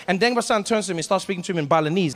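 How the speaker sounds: ordinary talk, nothing marked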